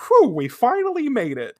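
high, panting relief; out of breath. Acted. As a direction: puff it out after a climb. Mako after climbing the mountain.

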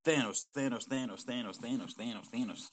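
stuttering glitchy repeats; glitchy jumping pitch. Shown as a demonstration. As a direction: voice skipping like a glitch. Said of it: "my glitchy ass voice".

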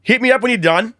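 put-on high-pitched, jovial Australian accent; Adam Demos impression. Imitating Adam inviting his friend round, Australian accent. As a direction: invite a mate along in broad Australian. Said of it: "That's an impressive ass, ... Australian accent".

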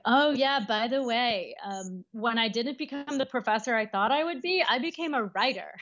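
lightly sarcastic, slightly lifted quote. Retold or imitated. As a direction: toss it off as a pointed aside. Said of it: "intense and sarcastic in a lot of places".

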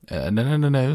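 high, urgent goose protest; warning goose. A narrator's reading. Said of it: "said the goose".

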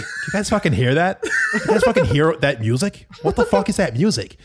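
startled Keem, high and agitated; freaked-out yelling. Retold or imitated. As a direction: demand to know where the music is coming from.

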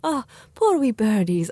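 put-on slow, half-baked English country accent; lightly imitated country English accent, drawn out; bad English country accent. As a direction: have a poor go at a rural English accent. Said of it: "that was a bad accent".

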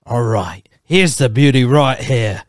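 clumsy Australian outback presenter voice; bad Australian accent. Friend showing how badly he does it, Australian accent. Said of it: "I do it, and it sounds so bad".

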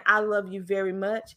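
even, unstressed delivery; just say it, with no word standing out; monotone. Shown as a demonstration. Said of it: "just like that monotone".

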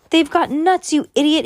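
high, loud and panicked; alarmed outburst. A narrator's reading. Friend reacts to allergy mistake.

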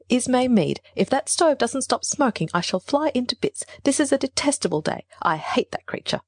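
vexed complaint, pitched well up; in a rage. A narrator's reading. Niece railing at sister about stove and day, enraged. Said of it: "I cried in a rage".

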